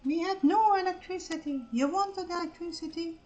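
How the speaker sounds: crank it up like a grumbling grandpa; hammed-up old geezer recalling hardship; grumpy old-timer. Continues old-timer rant.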